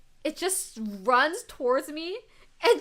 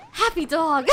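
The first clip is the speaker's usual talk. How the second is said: excited squeal; 4 semitones higher, 11 dB louder than usual. Retold or imitated. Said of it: "I was just like".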